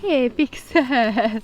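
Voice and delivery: slow, loud call to the dog. Real, not acted. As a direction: call her name out long. Calling the dog off again.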